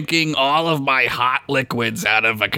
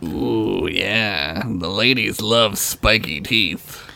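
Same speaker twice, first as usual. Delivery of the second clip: low sultry voice; 8 semitones lower, slower than usual. Pretend. Ad line, lower voice.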